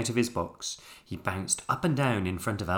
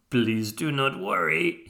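put-on higher, slow French-accented plea; 5 semitones higher, 5 dB louder than usual. A narrator's reading. Albert reassuring tangled Jack, French accent. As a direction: plead politely with a French accent.

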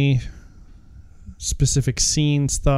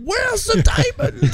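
put-on South African accent; slower than usual. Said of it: "when I do South African".

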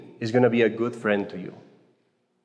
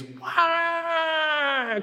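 very high mock baby cry; imitated baby wail; 3 dB quieter than usual. A baby crying in the front pew during Mass, mock wail. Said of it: "crying like that".

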